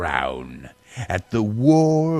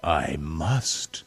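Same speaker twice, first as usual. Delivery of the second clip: low growl; 3 semitones lower, 3 dB quieter than usual. Acted. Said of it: "Then he growled".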